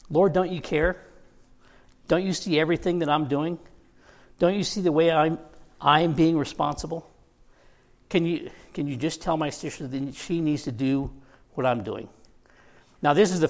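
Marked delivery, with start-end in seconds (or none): 0.1-12.1 mildly raised, whiny complaint; a touch of the put-upon older sister nagging; higher, shrill Martha. Retold or imitated. Preacher imitates Martha complaining to Jesus, mildly higher and whiny. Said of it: "in a much higher voice, in a much more shrill".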